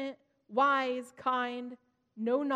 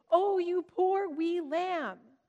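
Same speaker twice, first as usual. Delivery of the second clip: hammed-up Scottish, slow, higher and louder; thick Scottish accent; 6 semitones higher, 6 dB louder, slower than usual. Mother joking to her big kids in thick Scottish accent. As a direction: play up a thick Scottish brogue to make the kids laugh. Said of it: "always said it with a thick Scottish accent".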